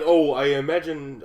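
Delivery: slow, loud attempt at a Bavarian accent; badly faked Bavarian director; drawn-out, half-managed Bavarian accent; Werner Herzog. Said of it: "I can't do a Bavarian accent".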